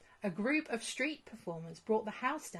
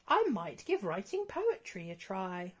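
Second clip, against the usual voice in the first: a different, lightly voiced dragon. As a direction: offer it a little tentatively. Dragon Cloudy speaks.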